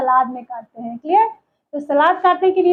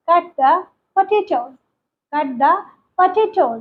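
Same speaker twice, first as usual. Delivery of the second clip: slow, deliberate teacher model sentence; much slower than usual. Shown as a demonstration. Teacher modelling a sentence slowly for learners. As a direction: say it slowly so students can repeat. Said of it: "use करेंगे".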